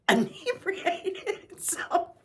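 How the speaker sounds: Inebriated stretched slowly and high through a laugh; real giggle over Inebriated. Real, not acted. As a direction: drag out Inebriated while laughing.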